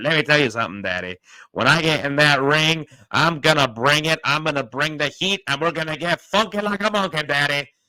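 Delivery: loud, high-pitched Southern drawl, like a ring promo. Describing how he talks on the microphone, the speaker imitates Dusty Rhodes promo. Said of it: "because just the way he talks".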